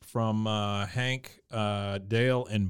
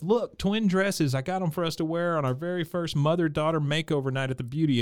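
higher-pitched imitation of delight; super happy; 5 semitones higher than usual. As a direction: play her thrilled, pitched up. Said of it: "she's just super happy about it".

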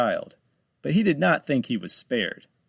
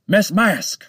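high, loud summoning shout; calling out; 9 semitones higher, 8 dB louder than usual. Acted. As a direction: bark the name as a command. Shark calls out an order.

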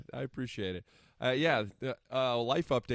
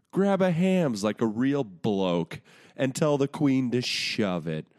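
loud mock Cockney, a second run; over-the-top fake Cockney accent; bad Cockney accent; 7 dB louder than usual. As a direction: ham up the Cockney bloke once more. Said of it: "let me run through it again".

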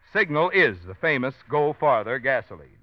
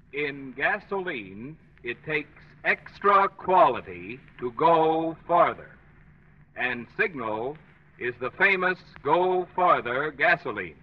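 flutter box effect. Shown as a demonstration. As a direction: read it through a wobbling flutter box. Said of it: "I'll speak into the flutter box".

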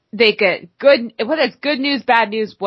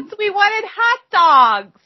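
very high, drawn-out Minnesotan whine; hammed-up Minnesotan complaint; Minnesotan accent; 13 semitones higher, 3 dB louder, slower than usual. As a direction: stretch it out in mock Minnesotan. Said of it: "a Minnesotan accent".

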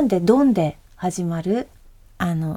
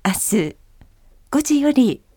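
slow, measured in-flight announcement; airplane announcement. Shown as a demonstration. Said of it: "飛行機アナウンス風で。".

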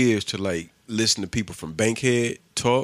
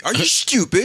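high, loud, put-on "Are you stupid?"; mock high voice; 12 semitones higher, 5 dB louder than usual. Friends mocking a TV commercial in a high, silly voice. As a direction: squeak out the insult in a silly voice.

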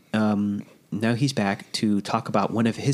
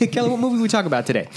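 excited; 10 semitones higher, faster than usual. Real, not acted. Hosts quizzing cohost.

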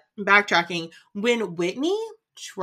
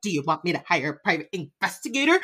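put-on drunk Whitney; 2 semitones lower, faster than usual. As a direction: mumble it like a drunk. Mimicking drunk Whitney pacing.

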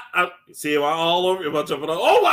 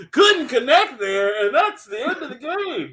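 mock mourning laugh; 9 semitones higher, 4 dB louder, slower than usual. Mock sports-loss commentary.

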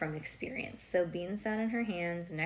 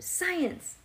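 excited; 10 semitones higher than usual. Acted. Bean excited about science.

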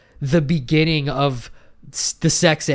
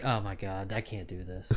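stifled giggle; 7 semitones lower, 16 dB quieter than usual. Retold or imitated. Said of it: "you're just like".

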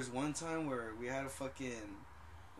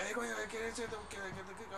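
high, soft imitation of a foreign-sounding rant; mock foreign-accented gibberish, pitched up; Ricky Ricardo; 6 semitones higher, 4 dB quieter than usual. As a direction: imitate a stranger's barely intelligible accented babble. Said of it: "talking like Ricky Ricardo thing".

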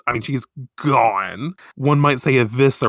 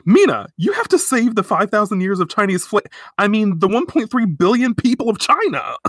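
voicing Artemis; 9 semitones higher, 4 dB louder than usual. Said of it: "Artemis is like".

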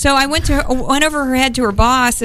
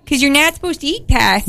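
higher Midwestern dominatrix voice; Mistress You Betcha; 4 semitones higher than usual. Acted. Guest justifying carb choice, Midwestern character accent. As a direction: explain it in a put-on Midwestern accent. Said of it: "my Mistress You Betcha voice".

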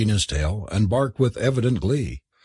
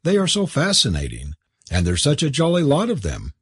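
playfully teasing, pitched up; mischievous; 6 semitones higher than usual. A narrator's reading. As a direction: lilt it up with mock enthusiasm. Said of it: "she said mischievously".

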